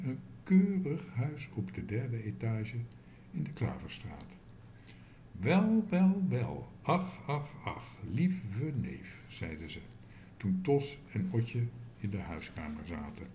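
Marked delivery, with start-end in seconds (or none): 5.3-9.2 fussy aunts. Acted. Aunts greet their nephew.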